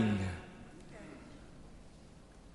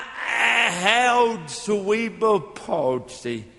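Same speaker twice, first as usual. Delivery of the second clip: slow, shouted excuse to God; pleading to God; slower than usual. Pretend. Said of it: "Can you imagine me telling God".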